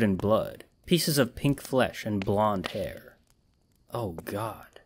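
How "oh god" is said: croaked. A narrator's reading. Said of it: "I croaked".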